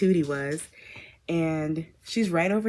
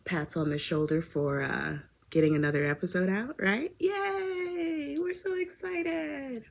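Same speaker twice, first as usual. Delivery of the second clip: hushed cheer, much softer and higher; whispering; 5 semitones higher, 6 dB quieter than usual. Real, not acted. Host to listeners, a whispered celebration. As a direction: whisper a tiny excited yay. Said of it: "Why am I whispering?".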